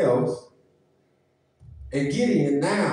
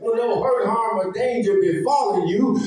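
driving sermon building to a high cry; fervent preaching; 3 semitones higher than usual. Acted. Preacher telling church who wakes them daily, fervent preaching. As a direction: preach it up to a ringing climax.

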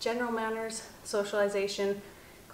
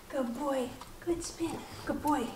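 squeaky praising a dog; 5 semitones higher, 6 dB quieter than usual. Real, not acted. Trainer praising puppy.

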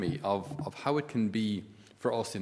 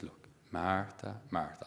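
calming Jesus; 5 dB quieter, slower than usual. Acted. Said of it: "in a slightly Donegal accent".

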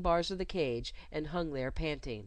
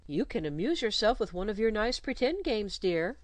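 lightly coaxing governess; 4 semitones higher than usual. Acted. Governess coaxing her pupil to play alone, coaxing. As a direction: coax the child along gently. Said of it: "Then, coaxingly".

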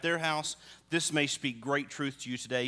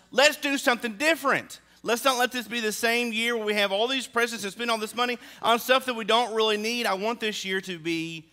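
higher, louder pitch for a fresh start; eager resolve; 6 semitones higher, 4 dB louder than usual. Retold or imitated. Husband urging wife to change Christmas, higher and louder. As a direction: pitch the new plan with bright hope. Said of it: "the goal was".

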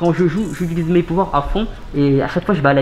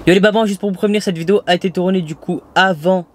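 muffled behind a mask; talking through a face mask. Real, not acted. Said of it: "c'est normal si je suis avec le masque".

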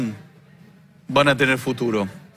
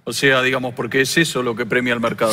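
Argentine politician impression, lightly voiced; Javier Milei impression. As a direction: talk like Milei with a halting "o sea, digamos". Impersonates Milei throughout.

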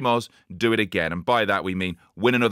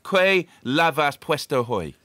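mock Spanish; 4 semitones higher, slower than usual. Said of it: "let me ask you in Spanish".

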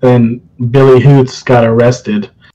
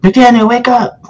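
calling out; 10 semitones higher than usual. Retold or imitated. Roommate banging on window, calling.

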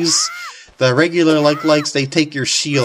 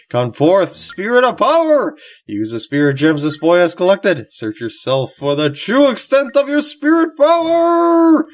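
booming ring announcer hype, pitched up; wrestling announcer; 5 semitones higher than usual. Pretend. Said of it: "It sounded like a wrestling announcer".

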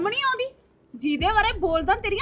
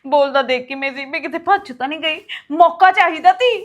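bitter angry; 4 semitones lower, 4 dB louder than usual. Acted. Wife still ranting about father-in-law.

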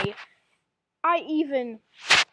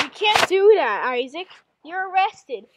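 acted stern arrest; 4 semitones higher, 6 dB louder than usual.

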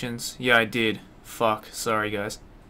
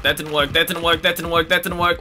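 louder with each repeat; frustrated chant getting louder; building frustration; 4 semitones higher, 7 dB louder than usual. Real, not acted. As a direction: hammer it home, more fed up each time. Repeats line, escalating frustration.

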